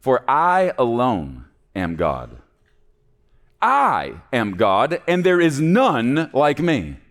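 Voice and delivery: slow, weighty words of God; God solemnly proclaiming he alone is God; slow divine declaration. Acted. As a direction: spell out "I alone am God" slowly. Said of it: "He says".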